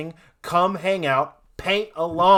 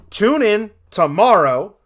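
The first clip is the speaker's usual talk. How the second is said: sing-song sign-off; 6 semitones higher, 6 dB louder, slower than usual. Acted. Teasing a sign-off too early.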